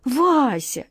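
high, loud, drawn-out desperate calling; desperate shout. A narrator's reading. Wizard Alyosha begging Vasya back, desperate shout. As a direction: plead at full voice, stretching the words. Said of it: "отчаянно закричал".

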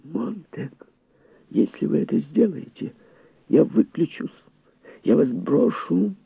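high, insistent threat; shrill ultimatum in the ear; piercing little voice. A narrator's reading. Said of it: "Пронзительно звенела в ушах мошка".

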